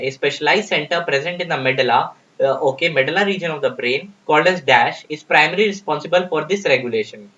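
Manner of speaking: slow, deliberate reading of an exam question. Acted. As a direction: read each word out slowly for the class. Reads question stem slowly.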